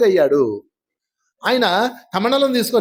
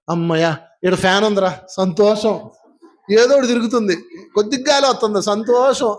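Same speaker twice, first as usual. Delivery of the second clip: mild happy relief; relieved. Retold or imitated. Imitating a content guest, grateful for a little breeze. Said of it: "అనుకున్నాను అనుకో".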